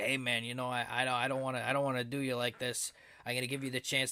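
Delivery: a hint of a Long Island mobster making an offer; terrible mafia boss impression. The speaker as mafia boss offering Sami a deal, mock menace. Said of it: "This is my terrible impression of a mafia boss".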